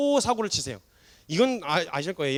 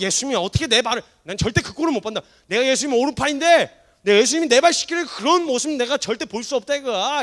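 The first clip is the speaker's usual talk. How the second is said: loud, high, agitated protest; worked-up imitation; 6 semitones higher, 9 dB louder than usual. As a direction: act out an indignant refusal at full volume. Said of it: "이러면서 막 흥분을 하기 시작한". (흥분해서 크고 높게 항변하는 흉내)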